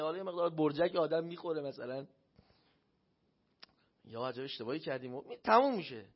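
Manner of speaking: usual speaking voice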